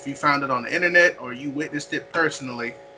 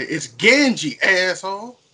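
snarky correction; 5 semitones higher, 4 dB louder, slower than usual. Pretend. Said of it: "I want to say".

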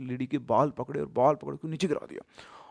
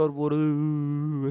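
imitated crying; much slower than usual. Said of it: "ऐसे करके रोने लग गई".

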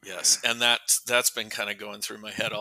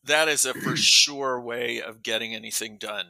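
sarcastic. Real, not acted. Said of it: "I'm being sarcastic".

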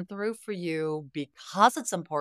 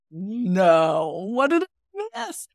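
alarmed question; 3 semitones higher, 6 dB louder, much slower than usual. Retold or imitated. Alarmed when daughter starts crying.

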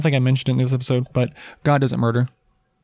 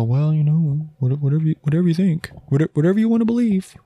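mock dismissive shrug; 3 semitones higher than usual. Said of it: "we also can't just sit there and go".

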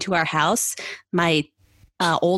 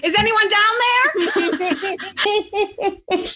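calling out; much slower than usual. Pretend. Calling down a hole jokingly.

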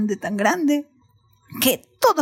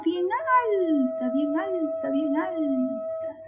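"alta" drawn out each time; stretched ALTA; 3 semitones higher, much slower than usual. A narrator's reading. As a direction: stretch "alta" to show great height. Stretches the word to show height. ("alta" alargada para mostrar altura)

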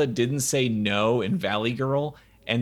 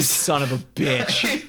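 laughing curse; 3 dB louder, slower than usual. Real, not acted. Friend beat him to joke.

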